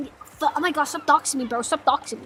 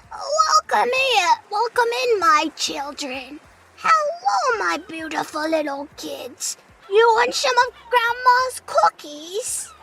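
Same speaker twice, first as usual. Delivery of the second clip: a hint of a grandma, higher and slow; old lady voice; 5 semitones higher, slower than usual. Grandma offers cookies to her grandkids, lightly voiced. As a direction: coo at the kids like a granny. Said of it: "Old lady voice!".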